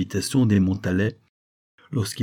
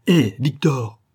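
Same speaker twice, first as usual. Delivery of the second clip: raised, louder hail; calling after someone; 5 semitones higher, 5 dB louder, slower than usual. A narrator's reading. Octave calls departing Victor back, hailing him. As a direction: call him back as he rides off.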